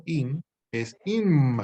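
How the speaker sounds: "in es im" said very slowly, each prefix set apart; slow prefix demo. Shown as a demonstration. Teacher to class, slowly showing the prefix forms. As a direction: lay out in and im like a teacher at the board. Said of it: "El prefijo en realidad es in".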